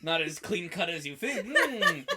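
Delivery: chuckling smug aside; a little gotcha laugh to herself; amused to herself. Retold or imitated. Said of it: "Like, to herself".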